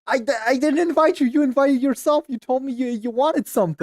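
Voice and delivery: loud, high, heated protest; heated denial. Real, not acted. Host denying he invited the caller, heated. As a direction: argue back over him, voice shooting up.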